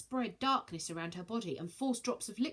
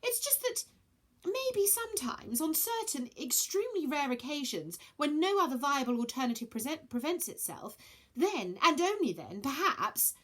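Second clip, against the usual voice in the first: high hesitant hedging; nervous rambling; 7 semitones higher than usual. Acted.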